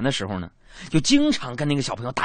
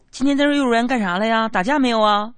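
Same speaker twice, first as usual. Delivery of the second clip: put-on high, louder coaxing tone to a child; sweet-talking uncle; 9 semitones higher, 5 dB louder than usual. Uncle asking his niece about kindergarten, coaxing. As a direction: coax the little girl with a singsong question.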